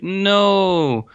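high, drawn-out mock wail of dismay. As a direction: stretch it out in playful despair. Retold dismay as sun disappears.

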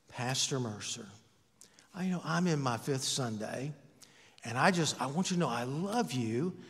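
soft, sugary put-down with a chuckle; mock sweet criticism. Congregant sweetly telling the pastor he's too fat, softly. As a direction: sweetly insult the pastor, half laughing. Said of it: "I was so sweet about it".

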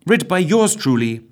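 put-on bright old-time radio presenter; cheery announcer introducing the story. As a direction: announce the programme like a wireless host.

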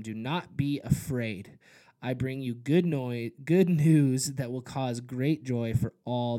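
measured Bible reading, slowing for key phrases; scripture reading. Acted. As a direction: read the passage like the Christmas story. Reads Luke chapter two aloud.

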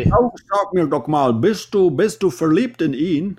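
high, loud American TV host; American accent in German. Retold or imitated. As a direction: quiz like an American talk host. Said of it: "mit einem amerikanischen Akzent der Sendung".

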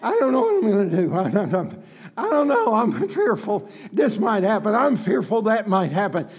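a hint of mock worry, fast in places; lightly mock the fearful voice; mock fretting. Preacher mocking fearful talk, half-hearted worried voice. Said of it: "laughs before mocking".

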